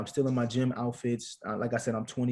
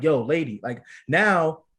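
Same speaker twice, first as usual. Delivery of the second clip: retold getting pissed; 3 semitones higher, 3 dB louder than usual. Husband retelling confronting the anesthesiologist, controlled retold anger. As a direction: recount your rising anger at the lady. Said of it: "now I'm getting pissed".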